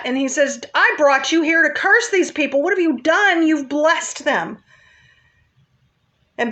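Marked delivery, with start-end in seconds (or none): 0.7-4.6 higher, indignant protest easing down at the end; mildly acted upset. Balak to Balaam after the blessings, acted upset. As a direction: demand an explanation, mildly put out. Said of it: "And Balak is upset".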